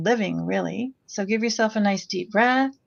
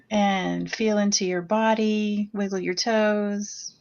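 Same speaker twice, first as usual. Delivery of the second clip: slow, calm meditation voice; guided meditation. Acted. Facilitator opening the closing meditation, slow and calm. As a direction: ease the group gently into their bodies.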